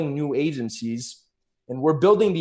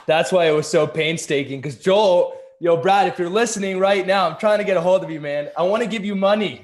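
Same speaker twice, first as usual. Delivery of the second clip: excited retold call-out; 4 semitones higher, 3 dB louder than usual. Brad retold, calling out to Joel.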